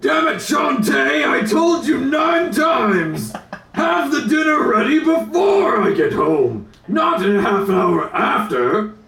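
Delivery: angry husband. Pretend. Sitcom husband yelling at wife.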